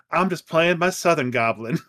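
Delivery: lightly imitated Southern twang; a daughter playing at a Southern accent; touch of romanticized Southern. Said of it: "romanticized Southern accent, like a country singer".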